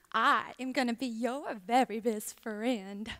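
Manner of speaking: tender promise. Acted. Old lady comforts the lonely mule, slow and tender. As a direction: stretch it out sweetly to comfort a friend.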